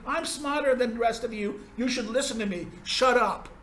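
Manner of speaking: mock smug expert lecturing the public; smug self-satisfied. Lecturer mimicking smug experts, mildly self-satisfied tone. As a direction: sneer it like a know-it-all. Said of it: "a tone of self-satisfaction of saying".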